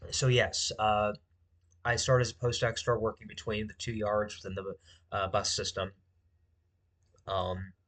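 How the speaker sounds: talking while chewing; words round a mouthful of food; mouth full. Real, not acted. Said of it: "I might be talking with my mouth full".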